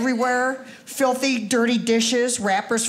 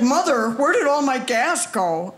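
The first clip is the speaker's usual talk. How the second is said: annoyed son; 2 semitones higher than usual. Retold or imitated. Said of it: "He's like".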